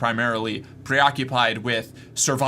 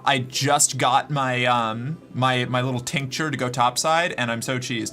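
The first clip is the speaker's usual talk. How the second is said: talking through plastic fangs; wearing vampire fangs. Real, not acted. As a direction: speak around vampire fangs. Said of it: "I put in my fangs".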